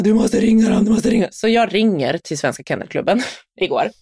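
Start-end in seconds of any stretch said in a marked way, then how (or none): 0.0-1.3 higher, insistent imitation of an angry child; imitated angry nagging; angry son. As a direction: press the demand in mock morning anger. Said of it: "var han så arg på morgonen".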